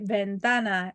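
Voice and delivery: "Ventana" stressed on the middle syllable TA. Shown as a demonstration. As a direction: say "Ventana" as ven-TA-na. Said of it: "the stress is on the tan".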